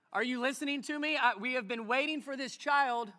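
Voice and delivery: loud, frustrated calling out to God; angry prayer. Retold or imitated. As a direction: shout your complaint up at God.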